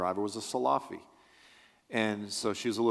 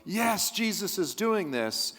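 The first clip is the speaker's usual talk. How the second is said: drawn-out, much higher mock cheer, slowed right down; mock excited; 10 semitones higher, slower than usual. Preacher mocking charismatics who get all excited, in a slow, high, hammed-up cheer. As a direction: lampoon the gushing charismatic believer. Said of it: "they get all excited".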